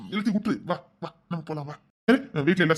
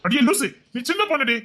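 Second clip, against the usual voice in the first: higher and louder affectionate telling-off; fond scolding; 7 semitones higher, 5 dB louder than usual. Acted. Husband fondly scolding his young wife, raised and affectionate. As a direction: tease her tenderly for being silly.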